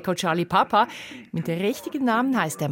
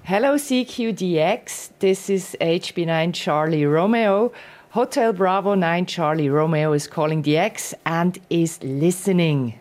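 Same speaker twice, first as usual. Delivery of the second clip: radio call; 3 dB louder than usual. Shown as a demonstration. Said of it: "machst genau den Spruch hier".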